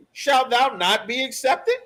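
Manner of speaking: "accepted" lifted at the end as a question; rising question. Shown as a demonstration. Preacher re-reads verse as question.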